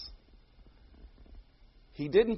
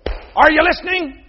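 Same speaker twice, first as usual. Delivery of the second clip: put-on higher, louder little-boy preaching; child preacher echo; 7 semitones higher, 6 dB louder than usual. Little Luke preaching his grandfather's line, higher and louder. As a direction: belt it out like a kid preacher. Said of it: "And Luke would go".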